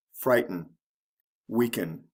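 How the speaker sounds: FRIGHT-en, WEAK-en, falling on each; first-syllable stress. Shown as a demonstration. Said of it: "the first syllable is emphasized".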